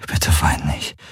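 tender whisper, no voice at all. A narrator's reading. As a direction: whisper it close, just for her. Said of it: "flüsterte er ihr ins Ohr".

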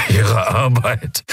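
very slow, hoarse sneer; a wounded man mocking his captor; dying prisoner scoffing, slow rasp; scornful rasp. A narrator's reading. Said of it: "Telios produzierte ein Lachen".

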